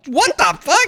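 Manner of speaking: high, laughing "what the"; laughing disbelief. Acted. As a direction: laugh through the outrage. Laughing in the mock Speed voice.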